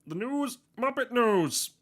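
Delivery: hammed-up Muppet news anchor; Kermit news voice. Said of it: "Kermit's news flash".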